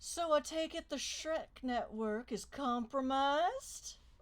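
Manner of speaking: put-on southern belle accent of the American South. Speaking in character after the car guns it out of the area, with a Southern Belle accent. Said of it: "with a Southern Belle accent".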